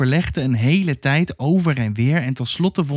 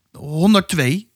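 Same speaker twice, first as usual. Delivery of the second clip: put-on slow, higher-pitched uncertain child's answer; doubtful; 5 semitones higher, slower than usual. A narrator's reading. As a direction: feel your way through it slowly, unsure. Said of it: "nog wat twijfelender".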